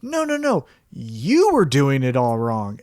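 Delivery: lightly voiced wrestler turning the tables, slow and pointed; correcting him. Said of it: "Cameron Grimes could go like".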